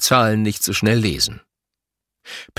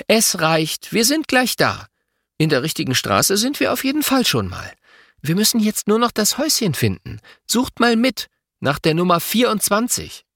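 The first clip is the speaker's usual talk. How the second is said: cutting in firmly; 11 semitones higher than usual. A narrator's reading. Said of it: "Mama unterbricht".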